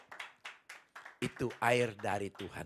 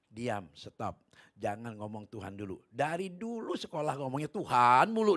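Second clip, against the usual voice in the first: annoyed complaint; 8 dB louder than usual. Retold or imitated. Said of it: "dia bilang".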